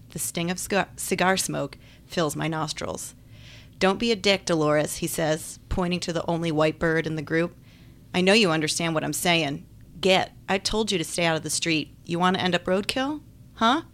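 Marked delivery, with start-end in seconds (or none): 3.8-5.0 lightly voiced southern man, scolding; southern accent. Man scolds his white goose in a light southern accent. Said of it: "He's got a southern accent". 8.1-13.8 a touch of southern scolding, punch the "Get"; southern accent. Acted. Man shoos the birds off the street in a light southern accent. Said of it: "He's got a southern accent".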